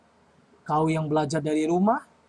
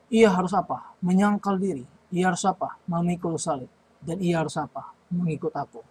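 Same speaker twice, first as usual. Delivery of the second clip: put-on quizzing children. Shown as a demonstration. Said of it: "teacher quizzing children on verse".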